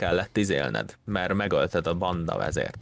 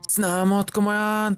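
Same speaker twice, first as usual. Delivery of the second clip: high, louder disbelieving exclaim; amazed gasp; 12 semitones higher, 3 dB louder than usual. Real, not acted. Friend amazed at the new kitten, high gasp and exclaim.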